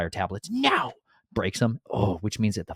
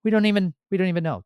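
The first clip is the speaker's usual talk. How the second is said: higher, louder mock complaint; mock whine; 12 semitones higher, 4 dB louder than usual. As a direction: whine like a clueless pagan. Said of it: "We're like".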